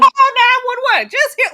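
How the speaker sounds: slow, high imitated yell; Dolly Jean. Panelist retelling Dolly Jean's call for emergency help, yelled. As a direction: drag out a loud mock holler. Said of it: "Dolly Jean yelling".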